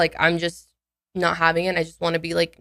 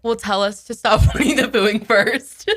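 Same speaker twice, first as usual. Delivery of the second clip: laughing. Real, not acted. Giggling over the bet idea.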